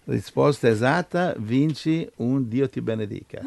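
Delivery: hammed-up quiz host announcing a winner; mock game show prize call; showy game show host. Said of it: "aspetta che lo facciamo classico qua".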